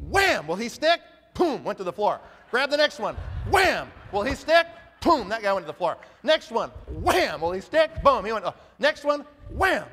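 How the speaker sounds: punchy shouted wham and boom; mock slam sound effects. Speaker acting out recruits hitting the wall, punchy shouts. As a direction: smack each one against the wall.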